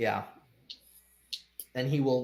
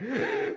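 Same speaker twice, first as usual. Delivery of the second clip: sharp gasp; 7 semitones higher, 3 dB quieter than usual. Acted. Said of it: "has a breath thing".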